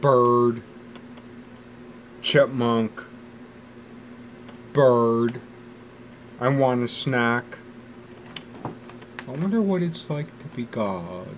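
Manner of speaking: put-on child's voice, then a slow "I want a snack"; little kid voice. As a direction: play a clueless kid naming things. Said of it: "except I'm like".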